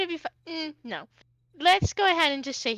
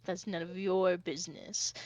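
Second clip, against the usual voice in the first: curt dragonborn retort; 5 semitones lower, 7 dB quieter than usual. Acted. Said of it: "Dara kinda turns and he goes".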